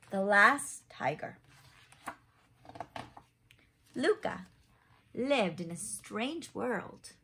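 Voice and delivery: lively picture-book narration; reading to children. A narrator's reading. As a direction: read it like a bedtime story for little ones. Reads picture book aloud.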